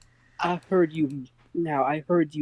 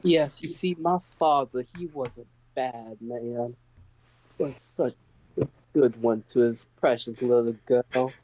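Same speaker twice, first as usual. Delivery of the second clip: put-on southern accent. The daughter telling Mammon about her bad father, sliding into a faint Southern accent. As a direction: let a faint Southern accent slip into the noblewoman's lines. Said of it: "I love the natural slipping into the southern accent".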